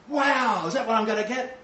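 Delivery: high, wide-eyed wonder; acted amazement. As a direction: burst out high, thrilled at the prize. Acts believer shown the reward.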